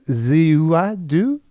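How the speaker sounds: slow, hammed-up attempt at Russian; bad Russian accent. Podcast host scrambling a word as a joke, bad Russian accent. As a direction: put on a clumsy Russian accent. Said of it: "the worst Russian accent of all time".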